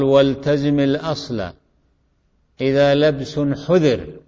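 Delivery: measured, slow reciting in short phrases; teacher's deliberate poem recitation; verse recitation. Shown as a demonstration. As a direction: recite the didactic couplet phrase by phrase, with pauses.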